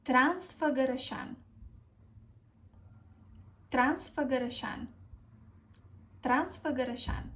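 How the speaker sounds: Transfăgărășan as trans-fuh-guh-ruh-SHAN; careful model pronunciation. Shown as a demonstration. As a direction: model Transfăgărășan clearly, each ă as uh. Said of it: "The correct pronunciation is".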